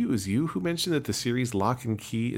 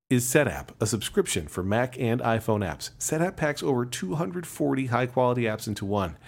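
ad read. Acted. Reads the sponsor ad.

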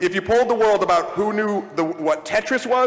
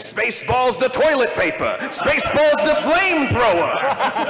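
mock merch pitch; 4 semitones higher than usual. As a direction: sell it like a cheesy movie ad. Quoting Spaceballs merchandise gag.

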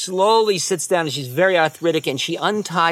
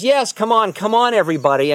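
eager acceptance; 6 semitones higher, 5 dB louder than usual. Retold or imitated. Guru eagerly accepting invitation.

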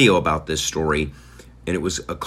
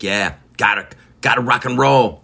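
imitated confident rocker, louder and higher at the end; 3 semitones higher, 5 dB louder than usual. Host re-enacting how the shopper said it, imitated confidence. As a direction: punch out the repeat with total conviction. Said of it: "like, so confidently".

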